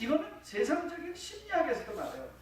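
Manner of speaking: ordinary delivery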